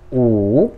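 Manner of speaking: "u" drawn out, dipping then rising; third tone. Shown as a demonstration. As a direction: let "u" sink, then climb. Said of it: "ele desce e sobe".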